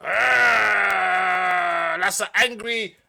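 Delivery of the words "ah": loud mock aah of disappointment; a hammed-up wounded cry; mock hurt aah; mock dismay. Reacting to a listener disliking it.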